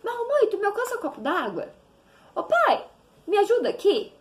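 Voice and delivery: just toss it off like family; casual everyday request to parents; casual ask. Retold or imitated. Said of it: "Como é que tu fala?".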